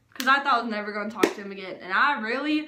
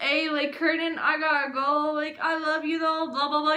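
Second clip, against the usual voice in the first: mock sad goodbye; 3 semitones higher than usual. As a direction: act out a mildly sad sign-off. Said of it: "sitting here all sad on the phone".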